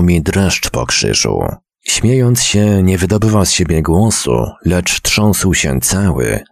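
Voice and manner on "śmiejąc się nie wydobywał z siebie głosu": plain reading voice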